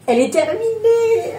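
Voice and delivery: high, thrilled announcement; excited. Real, not acted. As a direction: proudly reveal the finished piece. Announcing the finished piece.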